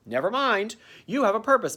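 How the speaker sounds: lightly voiced little girl cherub; a hint of a sweet child angel. Cherub Tilly telling Nestor his purpose, lightly girlish. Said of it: "she sounds like a little girl".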